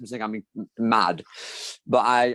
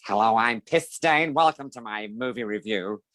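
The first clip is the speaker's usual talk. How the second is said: lightly voiced smarmy host; understated Paul Lynde impression; 2 semitones lower than usual. Shown as a demonstration. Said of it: "The Paul Lynde voice".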